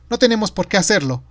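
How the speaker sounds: high, loud woman's voice on a call; eager, thrilled questioning; excited. A narrator's reading. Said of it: "Parecía emocionada". (voz de mujer emocionada)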